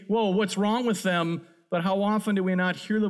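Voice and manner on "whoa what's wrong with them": judgmental remark. Retold or imitated. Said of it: "we look at others and say".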